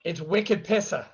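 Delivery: put-on playful Boston slang accent; mock Boston accent. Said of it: "of an accent you got there".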